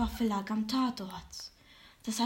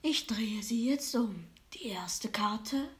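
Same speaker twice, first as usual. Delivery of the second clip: fortune teller; 3 dB quieter than usual. Acted. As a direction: whisper it like a secret. Fortune teller turns cards.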